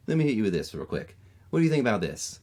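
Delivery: put-on Maryland accent. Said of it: "I'm like".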